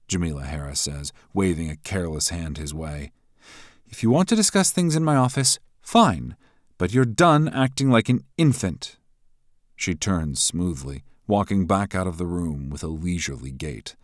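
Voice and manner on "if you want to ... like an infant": high, loud, taunting woman's voice; mocking rival. A narrator's reading. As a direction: needle him with scorn.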